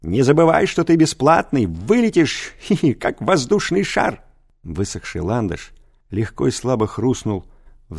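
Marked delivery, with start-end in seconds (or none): 0.0-4.2 angry threat. A narrator's reading. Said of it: "тряся налившимися щеками".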